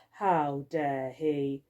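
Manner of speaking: "How dare he?" very slow and low, seething. Acted. Skullface muttering to herself about the forbidden cat, slow and seething. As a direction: let the outrage simmer under your breath.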